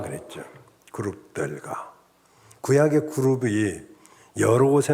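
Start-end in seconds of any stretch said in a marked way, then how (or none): 0.9-1.9 much lower and softer, slowed; a low, soft, slow echo of 그룹들과; quiet repeat. Shown as a demonstration. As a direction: murmur the word back to yourself. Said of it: "에덴 동산 동편의 그룹들과".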